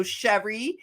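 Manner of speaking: Philly-style pronunciation of Sherry; Sherry in a Philadelphia accent. Shown as a demonstration. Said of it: "say it like we say it in Philly".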